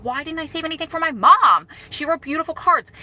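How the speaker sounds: high-pitched retold dismay; self-reproach. Daughter regretting she saved nothing from mom, dismayed.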